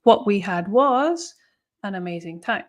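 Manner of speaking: teacher stressing the focus of the cleft; emphatic cleft delivery. Shown as a demonstration. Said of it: "After the verb to be is the thing that we want to emphasize".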